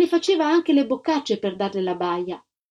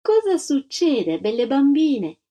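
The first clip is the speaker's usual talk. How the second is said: slow, higher, sweetly fake lady; a hint of a condescending charity lady; sugary false smile; 4 semitones higher, 3 dB louder, slower than usual. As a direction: coo it with an insincere smile. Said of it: "chiese sorridendo".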